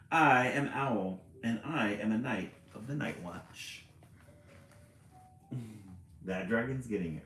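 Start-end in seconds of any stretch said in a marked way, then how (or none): 0.1-3.9 brave owl. Acted. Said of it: "puffed out his feathers and said".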